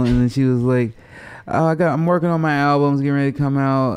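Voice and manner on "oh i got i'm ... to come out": higher, quicker Hollywood driver; light mimic of a chatty Uber driver; Hollywood lady. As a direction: rattle it off like a self-promoter. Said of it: "she was super Hollywoody".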